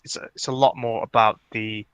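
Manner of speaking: chewing gum while talking; mouth full. Real, not acted. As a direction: talk around a piece of gum. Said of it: "Put your tongue back in your mouth".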